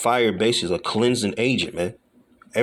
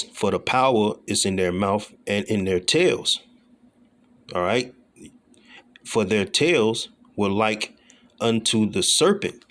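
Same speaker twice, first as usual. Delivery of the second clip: slow, deliberate verse reading; scripture reading; slower than usual. Acted. Preacher reads of fire and brimstone, slow and measured. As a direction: read each phrase slowly.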